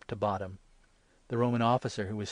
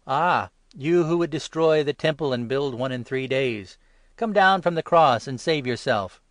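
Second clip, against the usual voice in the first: loud, high, jeering taunt; railing taunt; 5 semitones higher, 10 dB louder than usual. Acted. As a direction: jeer up at the cross. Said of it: "The passers-by railed at him".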